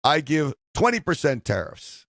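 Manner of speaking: attempted Chinese accent, slipping toward Russian; badly faked Chinese accent. Host plays President Xi offering tariffs, bad Chinese accent. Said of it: "That's not a good Chinese accent".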